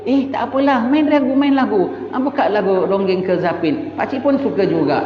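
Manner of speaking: put-on a father cheerfully allowing his daughter's boyfriend; foolishly easygoing father. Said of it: "Anaknya bawa boyfriend balik".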